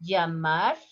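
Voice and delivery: Llamar as "yamar"; soft y pronunciation. Shown as a demonstration. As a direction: start Llamar on a gliding y. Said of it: "Listen the pronunciation".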